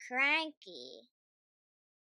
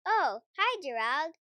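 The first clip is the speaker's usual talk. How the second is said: cheery greeting; 6 dB louder than usual. Acted. Piggie wakes, greets Gerald brightly.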